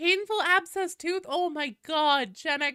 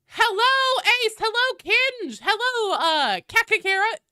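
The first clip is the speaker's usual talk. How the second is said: sing-song greetings; 10 semitones higher, 7 dB louder than usual. Real, not acted. Roll call greeting chatters.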